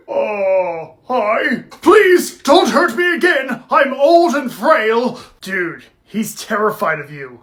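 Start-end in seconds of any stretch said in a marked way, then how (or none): 1.8-5.2 pleading. Acted. Old man begs Billy.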